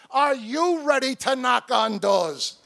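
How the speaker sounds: loud call to the crowd, pushing for a yes; rallying shout. Real, not acted. Speaker rallying volunteers at the convention, loud shout. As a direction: shout it out to fire up the room.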